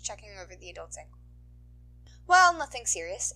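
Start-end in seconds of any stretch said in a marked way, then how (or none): 2.3-3.3 put-on higher, fussy elderly voice; old nurse. School nurse tending a woman's ankle, fussing. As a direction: scold gently while checking.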